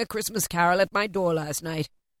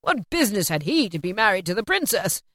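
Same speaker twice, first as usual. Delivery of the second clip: loud, eager rush of recognition; gleeful, emphatic old Scrooge reliving his stories; heightened, excited; 3 semitones higher, 7 dB louder than usual. A narrator's reading. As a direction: between laughing and crying with excitement. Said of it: "in a most extraordinary voice between laughing and crying".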